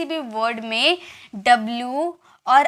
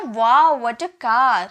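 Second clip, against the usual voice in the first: mock wow; 3 dB louder, much slower than usual. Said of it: "अचानक एक feeling, feeling आएगी ना".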